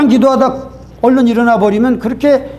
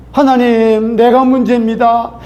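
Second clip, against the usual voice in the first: earnest confession; 2 semitones higher, slower than usual. Retold or imitated. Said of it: "간절히 기도하고".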